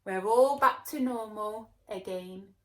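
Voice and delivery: loud relieved lolly; loud relieved cheer; delighted. Acted. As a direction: sigh of relief. Happy lolly.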